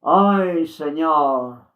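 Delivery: slow, grieving lament; mild sorrowful pleading; with sadness. Retold or imitated. Luz Amparo laments sadly to God for the souls. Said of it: "con tristeza".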